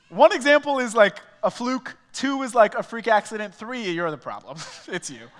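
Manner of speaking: high, loud, emphatic countdown; loud comic build to the punchline. Acted. Punchline counting three examples.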